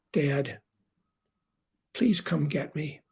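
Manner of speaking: hushed, whispered plea; quiet, almost whispered; retold tearful plea. Daughter phoning dad in tears, hushed whisper. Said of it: "She's crying".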